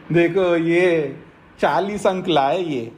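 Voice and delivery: drawn-out, mocking jibe; taunting put-down. Shown as a demonstration. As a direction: show someone up with a slow, pointed taunt. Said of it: "जब किसी व्यक्ति को उलाहना देते हुए बोलते हैं".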